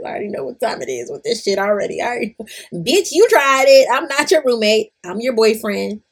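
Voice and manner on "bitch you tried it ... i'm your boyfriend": put-on sassy boyfriend voice. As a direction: snap it at her like the scorned boyfriend. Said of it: "Why I said it in that voice?".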